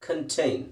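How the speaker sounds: Contain modelled as kən-tain; final model of Contain with weak kən; pron. Shown as a demonstration. Teacher gives the correct Contain, clearly. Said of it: "ಕನ್ ಅಂತ ಹೇಳ್ಬೇಕು".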